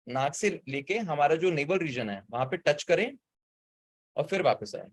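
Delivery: breaking up on a bad connection; crackly cordless phone. Real, not acted. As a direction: voice cutting in and out. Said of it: "आवाज ठीक से नहीं आ रही है।".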